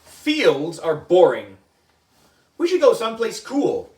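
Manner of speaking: put-on loud whining bored kid; whiny complaint. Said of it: "I said".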